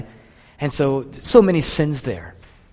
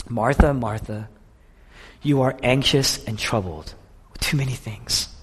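emotional; 2 semitones lower, 4 dB quieter than usual. Acted. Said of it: "there's this intense emotional language".

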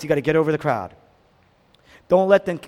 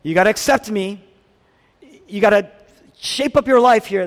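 demanding Jesus; 3 semitones higher, 5 dB louder than usual. Retold or imitated. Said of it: "he doesn't say".

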